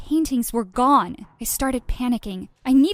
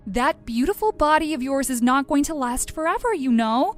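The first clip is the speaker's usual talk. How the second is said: snapping; 4 semitones higher than usual. Acted. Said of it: "she snapped".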